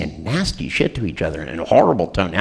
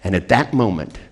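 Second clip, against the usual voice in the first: slow hypnotic reveal. Retold or imitated. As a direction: let totally and utterly alone land slowly. Hypnotic punchline to the wife.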